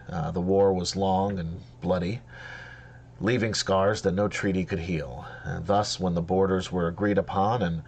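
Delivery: measured storytelling lore voice; epic fantasy narrator. Acted. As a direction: tell the old tale gravely. Gm narrates elven history.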